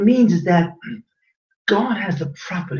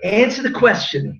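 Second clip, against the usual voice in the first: mock courtroom lawyer, pitched up a bit; lawyer demanding an answer; 6 semitones higher than usual. Lecturer mimics a courtroom lawyer pressing the class, lightly demanding. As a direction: lightly play a cross-examining lawyer. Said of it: "you ever see a lawyer in court?".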